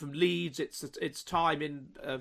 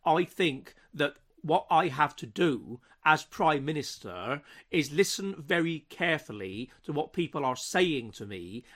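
faux country accent; 2 semitones lower than usual. Impersonating the prime minister's speech in a faux country accent. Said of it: "faux country accent".

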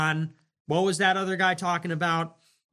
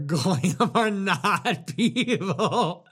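laughing mock; much slower than usual. Mocking quote, laughing, slow.

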